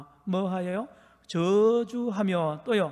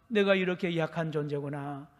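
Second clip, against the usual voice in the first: despairing inner voice; 2 semitones higher, 4 dB louder than usual. Retold or imitated. Preacher voicing a believer realizing their own weakness, rising despair. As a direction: let the despair swell to the last line. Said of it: "하는 이 비참함에".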